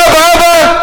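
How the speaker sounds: high imitated call; son calling out. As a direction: call like a child to a parent. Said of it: "שכשהבן קורא".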